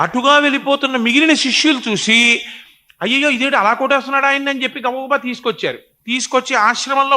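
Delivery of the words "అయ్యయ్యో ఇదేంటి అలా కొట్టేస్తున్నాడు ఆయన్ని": fast, alarmed, higher-pitched outcry; alarmed cry. Retold or imitated. Disciples cry out in alarm seeing their friend beaten. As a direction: blurt it out in shock at the sight.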